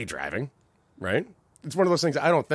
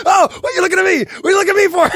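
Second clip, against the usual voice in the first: mock confrontation; 14 dB louder, much faster than usual. Teller confronting staring stranger.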